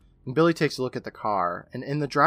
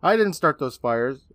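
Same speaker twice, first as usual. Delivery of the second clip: higher, louder mock protest; imitated yelled denial; 4 semitones higher, 5 dB louder, slower than usual. Retelling Ingalls denying the fires, mock yelled protest. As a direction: plead innocence in a half-yell. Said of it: "Ingalls yells out".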